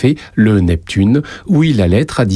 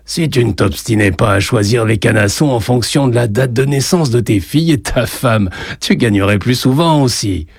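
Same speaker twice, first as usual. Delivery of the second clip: mocking; 3 semitones higher than usual. Barman Anselme teasing Joseph about his betting, mild mockery. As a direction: rib him gently about his silly bets. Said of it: "sur un ton goguenard".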